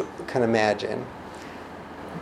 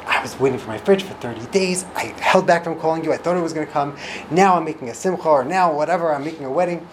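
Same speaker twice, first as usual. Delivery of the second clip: fuming customer; 5 semitones higher than usual. Retold or imitated. Upset customer complaining to the service agent, fuming. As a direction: vent at the phone agent. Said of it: "you're fuming".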